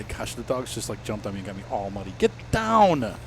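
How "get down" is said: firm shout. Real, not acted. Dog jumps on him.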